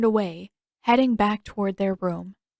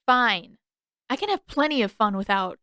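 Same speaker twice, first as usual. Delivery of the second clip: sulky; 2 semitones higher than usual. Acted. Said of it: "he scowled".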